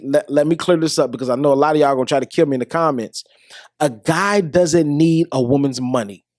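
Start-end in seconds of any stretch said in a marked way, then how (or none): 3.8-6.2 slow confiding whisper. Acted. To viewers after clearing things up, a slow whisper. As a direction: lean in and whisper it slowly. Repeats the point after an aside.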